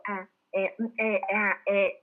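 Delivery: demonstrated ums and ahs; string out separate stalling noises; halting "farm noises" of an unsure speaker; hesitation fillers. Shown as a demonstration. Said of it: "Yo les llamo sonidos de la granja".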